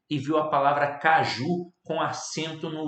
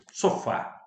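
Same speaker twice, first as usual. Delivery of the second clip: whispered. Shown as a demonstration. Repeats example word softly.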